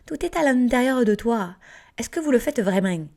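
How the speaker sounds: put-on playful accent from the South of France; light mock southern French accent. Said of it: "J'arrête avec mon accent du Sud".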